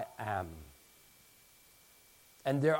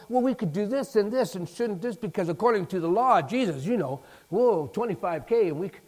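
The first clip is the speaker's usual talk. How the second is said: mocking Judas; 4 semitones higher, 4 dB louder than usual. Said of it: "Judas ... parsing these little theological".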